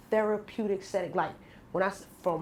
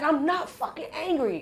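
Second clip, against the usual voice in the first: mock denial; 6 semitones higher than usual. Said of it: "why are you so angry".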